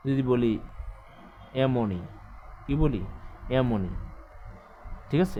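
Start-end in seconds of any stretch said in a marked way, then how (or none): 1.6-2.0 এমনই said with a clear e sound; correct vowel. Shown as a demonstration. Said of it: "এরকম বলি না, এমনই". 3.6-3.9 এমনই repeated with a clear e sound; correct vowel. Shown as a demonstration. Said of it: "এরকম বলি না, এমনই".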